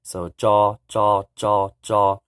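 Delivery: "jaw" loud and clear like English J; teacher showing TS sound; Hmong tsa. Shown as a demonstration. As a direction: drill "jaw" repeatedly. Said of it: "J as in jaw".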